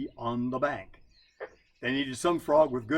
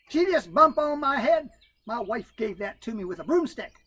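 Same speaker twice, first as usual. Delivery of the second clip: Brother Coon; 10 semitones higher, 7 dB louder than usual. Acted. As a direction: whine out the excuse. Coon's voice.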